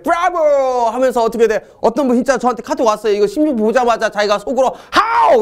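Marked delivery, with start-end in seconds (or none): 0.0-0.4 high-pitched cry of bravo; triumphant cheer. Acted. Teacher shows students the cheer on spotting the answer, triumphant cheer. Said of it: "어떻게 하실 때". 4.9-5.4 high, sudden mock shout; retold shout. Teacher imitates a student who spotted the answer, mock shout. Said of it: "외쳤대요".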